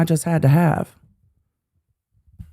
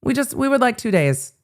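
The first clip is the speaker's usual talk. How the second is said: higher, whiny mock of the lawyer; 4 semitones higher than usual. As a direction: mimic her asking meekly. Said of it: "she's just like".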